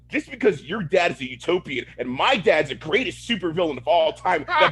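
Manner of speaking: hammed-up clunky superhero dialogue; unnatural dialogue. Co-host mimics a show character stating backstory, mock stilted. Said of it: "the dialogue just is so unnatural".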